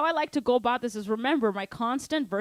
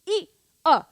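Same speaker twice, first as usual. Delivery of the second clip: counting out loud and high; shouted count; 6 semitones higher, 7 dB louder than usual. Shown as a demonstration. Teacher shouting the count to show students. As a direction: belt the count out over the drums. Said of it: "I am, like, screaming it out".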